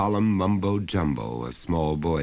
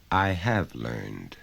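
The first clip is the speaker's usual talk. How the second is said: put-on lower, slow weary child; like an old tired man; 5 semitones lower, slower than usual. Six-year-old answering father like a tired old man. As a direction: sigh it out like a worn-out old man. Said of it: "speaking like an old, tired man".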